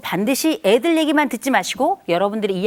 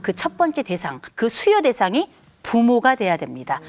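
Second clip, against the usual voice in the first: ordinary talk, nothing marked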